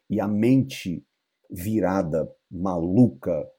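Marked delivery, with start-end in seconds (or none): none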